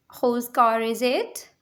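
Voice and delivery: slow, clear repeat for learners; slow teacher repeat. Shown as a demonstration. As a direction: spell it out slowly word by word. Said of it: "teacher repeats sentence slowly".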